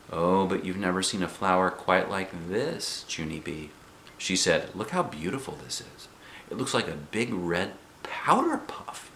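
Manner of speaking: soft, tender coaxing voice; gentle coaxing mother. Acted. Mother shows Junie B a flower, soft and tender. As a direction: soothe her like showing a treasure.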